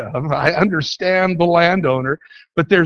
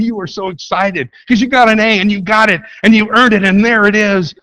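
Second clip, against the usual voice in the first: higher, louder, building excitement; excited triumph; 4 semitones higher, 4 dB louder than usual. Acted. Preacher recounting a student's hard-earned A, excited. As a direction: relive the thrill of earning it.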